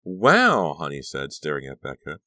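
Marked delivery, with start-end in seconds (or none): 0.0-0.7 high, loud wow; awed exclamation. A narrator's reading. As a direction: marvel out loud. Honey stares at Becca in awe.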